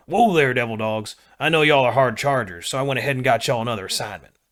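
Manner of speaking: slow southern drawl, lightly mocking a sergeant major; southern drawl impression. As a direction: mimic the boss with a southern drawl. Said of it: "he said in a deep southern drawl".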